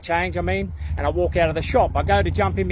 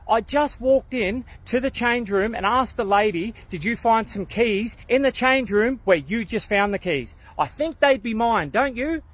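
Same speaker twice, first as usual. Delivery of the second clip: sarcastic inner voice; 3 semitones higher than usual. Retold or imitated. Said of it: "I'm thinking to myself".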